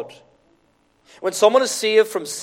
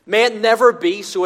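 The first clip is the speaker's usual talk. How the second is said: emphatic God forbid; 3 semitones higher, 5 dB louder than usual. Retold or imitated. Preacher quoting Paul's rebuke, loud and emphatic. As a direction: declare it like Paul's firm rebuke. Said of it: "it means".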